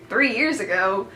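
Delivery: disbelieving question with a wavy tune; incredulous echo. Retold or imitated. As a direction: echo it back as if you can't believe it. Her stunned reaction to his words.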